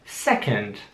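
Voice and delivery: drawn-out "Second"; "Second" slowly for learners. Shown as a demonstration. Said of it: "Ich sag das Wort noch mal langsam".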